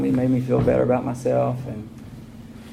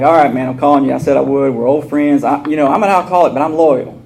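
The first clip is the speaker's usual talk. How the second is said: louder, pushy phone voice; aggressive; 2 semitones higher, 5 dB louder than usual. Retold or imitated. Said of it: "I'm aggressive".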